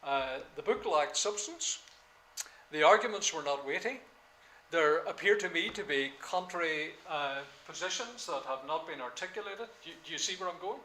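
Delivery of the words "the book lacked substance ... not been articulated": academic register. Shown as a demonstration. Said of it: "You're going to say".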